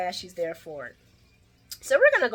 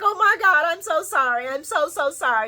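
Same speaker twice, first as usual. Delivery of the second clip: apologetic gasp; 9 semitones higher, 6 dB louder than usual. Retold or imitated. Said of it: "she's like".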